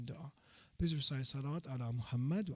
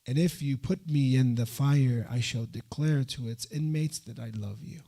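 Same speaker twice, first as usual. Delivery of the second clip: louder, fervent translation of the prayer; impassioned declaration; 3 semitones lower, 7 dB louder than usual. Acted. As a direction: proclaim it to the hall with fervor.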